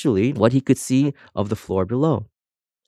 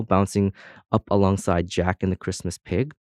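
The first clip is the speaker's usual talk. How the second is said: ordinary talk, nothing marked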